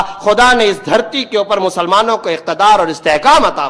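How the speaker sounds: impassioned sermon with driving, list-like cadence; preaching. Real, not acted. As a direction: declaim it to a congregation, phrase by phrase. Preaches to a congregation. (جوشیلی خطابت)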